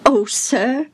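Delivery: high, emotional appeal; acted desperate address; pleading father. A narrator's reading. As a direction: implore him respectfully. Father begging Jesus to come.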